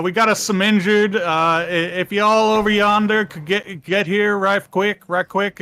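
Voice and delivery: hammed-up backwoods Southern accent; southern redneck accent. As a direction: put on a slow, high southern drawl. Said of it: "That's why it's a southern accent".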